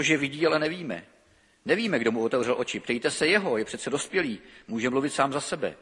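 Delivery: lively Bible reading with voiced speakers; scripture reading. Preacher reading John to the congregation, expressive and lively. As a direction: read the blind man's story to the congregation. Reads the Gospel passage aloud.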